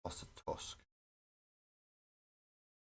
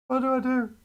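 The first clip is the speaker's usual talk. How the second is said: much higher, loud desperate wail; 10 dB louder than usual. Real, not acted. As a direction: cry it out in mock despair. Torn over model choice, louder.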